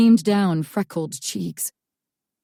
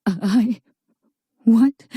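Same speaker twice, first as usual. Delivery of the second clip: shocked; 4 semitones higher, 5 dB louder than usual. Acted. Shocked Lucy stammers.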